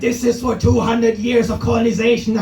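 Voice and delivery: a mock-grave line of revenge; vengeful Indian pedestrian. Indian pedestrian avenging colonization on the Austrian, mock-grave. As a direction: deliver it like a movie vendetta. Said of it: "It's the Indian person like".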